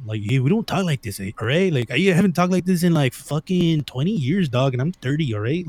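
mock cholo Mexican accent with a lilt; sing-song parody of a Latino stereotype accent; stereotyped Mexican accent. Shown as a demonstration. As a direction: demonstrate the outdated Mexican-American homeboy accent. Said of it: "I don't talk like that anymore".

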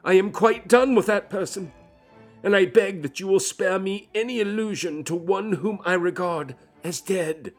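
high, loud and trembling; loud unsteady voice. Acted. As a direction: push him away, voice shaking. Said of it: "in a loud, unsteady voice".

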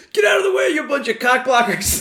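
high-pitched mock angry yell; hammed-up mad. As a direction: play a pissed-off guy, voice jumping up, laughter close behind. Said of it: "He's so mad".

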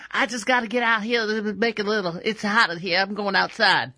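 a lightly accented, put-on voice for the woman; odd put-on woman voice. The wife explains to her husband she is going out, in a lightly put-on voice. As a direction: play her as breezily going outside. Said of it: "I don't know why she sounded like that".

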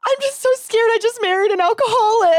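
very high mock wail; imitated crying. Retelling wife in tears over drunk husband, mock crying. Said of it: "she starts crying".

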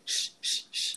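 unvoiced hushing to cut someone off; sharp shh; shushing. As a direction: hush the latecomer. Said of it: "my acting coach is like".

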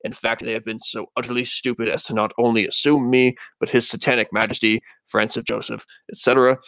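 lightly spooky, measured letter reading. Acted. Podcaster reading the Axeman's letter aloud, spooky voice. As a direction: read it as a mildly eerie demon killer. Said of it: "read this in a spooky voice".

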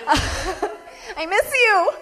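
very slow, high, whiny plea; giggly drawn-out pining; mock clingy. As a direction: stretch it out like a needy lover. Mock clingy line to boyfriend.

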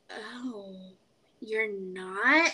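hesitant imitation with a pause after "Oh"; imitated halting surprise. Coworker learning her guess was wrong, halting. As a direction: mimic her slowly taking it in. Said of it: "me doing these pauses".

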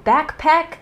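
'Backpack' with a clear k in back; full k pronunciation. Shown as a demonstration. Speed round of variants, full-k 'Backpack'. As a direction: sound both k's in 'Backpack'. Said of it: "speed round".

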